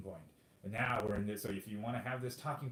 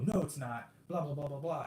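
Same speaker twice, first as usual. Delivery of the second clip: mock retort; 5 semitones higher than usual. Acts out the trap reply.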